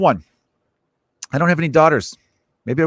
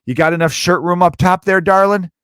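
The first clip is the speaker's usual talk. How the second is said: creepy dad; 7 semitones higher, 4 dB louder than usual. Retold or imitated. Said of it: "any dad would be like".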